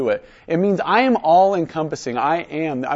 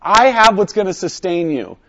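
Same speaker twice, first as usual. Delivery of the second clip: slow, emphatic declaration; mean every word, stretched out and firm; with conviction; 4 dB louder than usual. Shown as a demonstration. Showing someone who really means it, with conviction. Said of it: "saying that with conviction, and he really means it".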